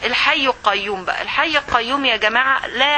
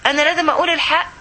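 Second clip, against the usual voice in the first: higher-pitched, insistent comeback; pitched-up retort in an acted argument; acted refusal; 5 semitones higher than usual. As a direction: push back at a meddling friend. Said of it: "تقول لها".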